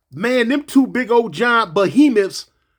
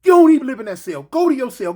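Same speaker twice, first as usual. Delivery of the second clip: officer order; 4 semitones higher, 3 dB louder than usual. Retold or imitated. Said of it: "The police tell Blowfish".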